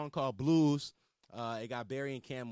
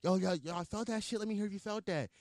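hype emcee intro; 7 semitones higher than usual. Retold or imitated. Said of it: "I would be like".

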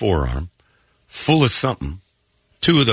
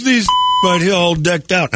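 mimicking the fan; 10 semitones higher than usual. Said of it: "He goes".

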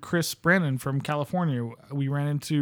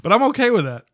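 laughing; 4 semitones higher, 6 dB louder, faster than usual. Real, not acted. Laughing at their booby prize.

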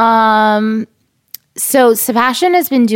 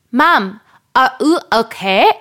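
put-on lightly German-accented little boy, slightly raised pitch; little German tourist; 3 semitones higher, slower than usual. Mom retelling her son's worried question, lightly German-accented child voice. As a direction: imitate a small child with a hint of German accent. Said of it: "my little German Taurus".

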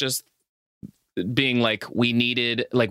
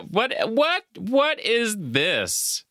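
laughing disbelief; 8 semitones higher, slower than usual. Real, not acted. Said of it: "laughing disbelief".

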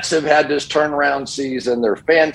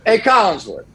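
higher, taunting fan voice; heckling fan; 10 semitones higher than usual. Retold or imitated. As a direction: needle him like a rowdy fan. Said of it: "But no".

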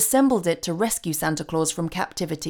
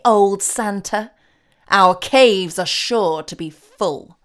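slow, loud gloating with a cackle; taunting demon voice; 3 semitones higher, 6 dB louder, slower than usual. Acted. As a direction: savour every cruel word. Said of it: "like taunts".

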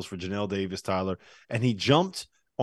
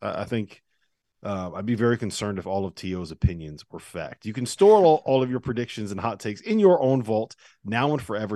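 ad read. Acted. Host reading a sponsor ad to listeners, upbeat. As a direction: sell the app like a radio spot.

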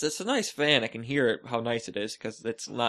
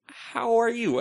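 higher-pitched, at normal volume; retold timid reply; 9 semitones higher, slower than usual. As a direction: return the greeting tentatively, acted out. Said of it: "And I timidly take two steps".

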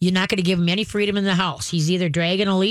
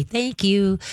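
calm thanks. Shown as a demonstration. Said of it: "just very calmly say".

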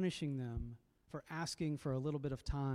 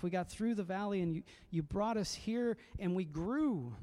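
pleading psalmist; 4 semitones higher than usual. Retold or imitated. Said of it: "She's trying to remember and say".

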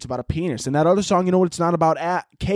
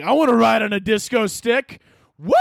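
put-on excited kid shouting; 5 semitones higher than usual. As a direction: belt it out like an excited child. Kid self shouting lyrics.

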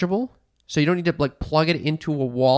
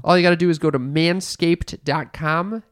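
sponsor ad read; 2 semitones higher than usual. Acted. Host pitching a sponsor to listeners, ad-read style. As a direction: sell it like a radio spot. Host reads promo code.

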